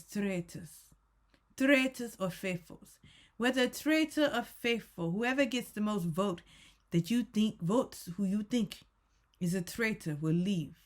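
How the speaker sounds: a weird put-on accent, pronouncing the rules; attempted Alan Cumming accent. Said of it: "this is to represent Alan".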